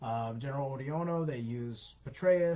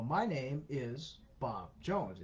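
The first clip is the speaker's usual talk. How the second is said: very slow, evenly paced machine imitation; robotic app voice; much slower than usual. Accent app converting the caller's voice, slow robotic mimic. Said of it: "it sounds a little robotic, and it sounds a little slow".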